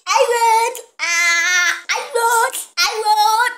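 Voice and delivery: loud, high victory chant; excited shouting. Real, not acted. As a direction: chant your win, thrilled. Celebrating win.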